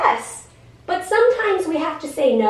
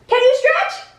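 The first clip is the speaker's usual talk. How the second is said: high, louder coax to the dog; 11 semitones higher, 4 dB louder than usual. Real, not acted. Coaxing the dog to stretch, high and bright. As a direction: lift it up and coax.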